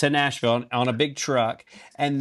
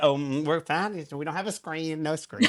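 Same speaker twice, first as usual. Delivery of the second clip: fake breezy calm. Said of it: "having to be secretive".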